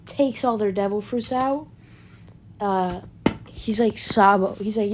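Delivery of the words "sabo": calling out. Retold or imitated. Calling out to Sabo.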